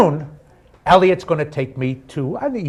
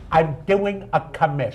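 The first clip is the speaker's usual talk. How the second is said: Richard Kind impression; 2 semitones higher than usual. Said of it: "I can't do a Jewish accent".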